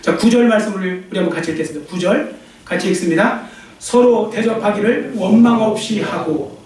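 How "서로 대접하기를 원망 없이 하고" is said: slow, measured scripture recital; scripture reading. Acted. The preacher leads the church in reading, slow recital. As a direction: read it aloud together, slowly.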